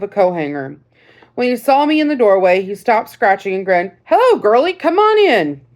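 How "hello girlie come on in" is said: put-on friendly old soldier, pitched higher; lightly voiced grandfatherly veteran; old sergeant voice. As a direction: greet the girl like a folksy old sergeant.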